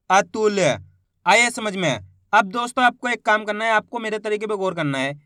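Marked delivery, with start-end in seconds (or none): 0.1-0.6 अतुल joined into one word, final ल released; blended word. Shown as a demonstration. Teacher joining the letters for learners, अतुल said as one word. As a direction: blend अतुल together carefully. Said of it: "तो मिलके बन जाएगा".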